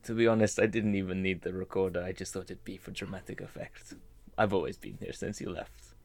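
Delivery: tag. Acted. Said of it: "hear a French Canadian voice".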